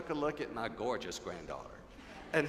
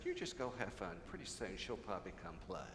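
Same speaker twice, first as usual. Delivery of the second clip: whispered; 9 semitones lower, 10 dB quieter than usual. Retold or imitated. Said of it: "I whispered in her ear".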